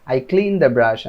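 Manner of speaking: each word slow and separate; slow model sentence. Shown as a demonstration. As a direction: spell it out slowly for learners. Teacher models example sentence.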